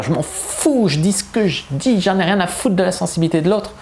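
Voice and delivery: a hint of a snotty airhead; careless attitude. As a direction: brush everyone off defiantly. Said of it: "je fais des voix de conne".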